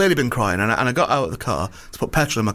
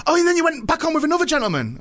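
garage man voice; 14 semitones higher than usual. Retold or imitated. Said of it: "And he went".

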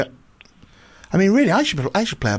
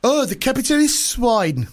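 higher, slow put-on villain voice; Putin; 8 semitones higher, slower than usual. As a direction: sneer at a rival leader in a raised, drawn-out voice. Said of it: "Okay, I'll be Putin then".

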